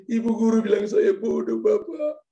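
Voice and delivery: mock-crying schoolboy, high-pitched wail; Yakobus. Boy complaining to his father about teacher, mock crying. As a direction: whine tearfully, rising high at the end. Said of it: "kenapa kamu nangis".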